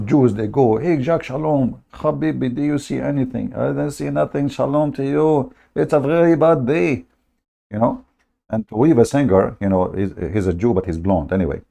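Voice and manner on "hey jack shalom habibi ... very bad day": higher mock voices greeting each other; lightly voiced fishermen trading bad news; mock fishermen chat. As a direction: ham up the gloomy fishermen.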